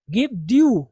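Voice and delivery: "due" with a y-glide, "dyoo"; dyu pronunciation. Shown as a demonstration. Teacher modelling the phrase for students, dyu pronunciation. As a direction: say due as D-YOO. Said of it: "ये ड्यू है".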